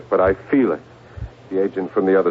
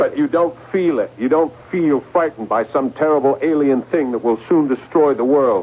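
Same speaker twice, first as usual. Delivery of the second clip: rising dread; 6 semitones higher than usual. Acted. John voices growing terror.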